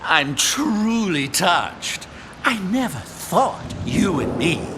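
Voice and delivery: slow, hammed-up touched; slow fake tenderness; mock sincere. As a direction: drag it out, feigning emotion. Imp feigning emotion.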